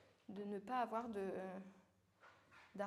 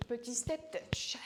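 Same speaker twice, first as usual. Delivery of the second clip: whisper; slower than usual. Acted. Coach whispers cue mid-workout.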